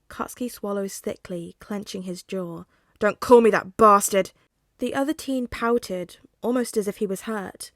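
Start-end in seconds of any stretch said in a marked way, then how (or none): 3.0-4.3 loud snapping yell; angry shout. Acted. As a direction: bark it out in anger. Katsuki shouts.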